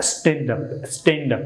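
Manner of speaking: স্ট্যান্ড আপ said with an open a sound; স্ট্যান্ড আপ with a flat English a, rhythm lifting; correct English pronunciation. Shown as a demonstration. Teacher demonstrating the right স্ট্যান্ড আপ to students, clear correction. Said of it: "মানে একটু rhythm উপরে উঠবে".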